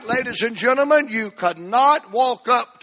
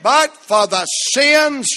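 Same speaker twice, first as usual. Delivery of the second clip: preacher rising into a shout; building to a shout; 2 semitones higher, 4 dB louder than usual. Real, not acted. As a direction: build from a hush to a full cry. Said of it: "I'm close to shouting right there now".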